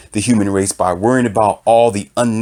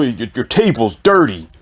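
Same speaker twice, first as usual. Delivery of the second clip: higher, mocking nitpicks; petty commenter; 5 semitones higher than usual. Imitating commenters mocking a computer tutor, higher. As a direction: mimic commenters picking at his room and nails. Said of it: "five people talking about".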